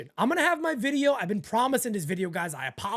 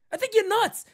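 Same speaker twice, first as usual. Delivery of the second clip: higher, louder, "nuts" hit hard; emphatic repeat; 12 semitones higher, 5 dB louder than usual. Real, not acted. Host doubles down on fans of the reliever, louder. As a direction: punch it the second time like you mean it.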